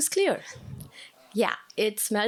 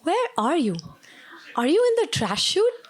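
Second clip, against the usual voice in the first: higher, louder shouted questions; calling out; 6 semitones higher, 4 dB louder than usual. Retold or imitated. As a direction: call up through the chute, urgent. Shouting up at trapped man.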